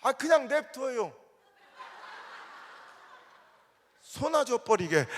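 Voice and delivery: loud, slow fed-up shout; old man's shout. Retold or imitated. Preacher voicing the old farmer refusing, slow loud shout. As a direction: yell it out, laughing, slow. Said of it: "했더니".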